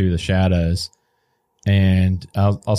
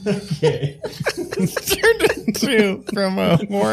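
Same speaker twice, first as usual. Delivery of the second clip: character voice; 3 semitones higher than usual. Acted. GM voices a strange NPC.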